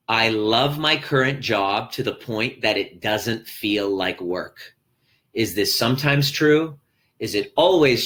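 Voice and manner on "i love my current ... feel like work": slow read. Shown as a demonstration. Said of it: "answer this question".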